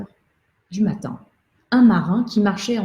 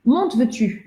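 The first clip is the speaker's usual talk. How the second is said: calling out; 8 semitones higher than usual. A narrator's reading. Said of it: "se pencha sur la lisse et cria".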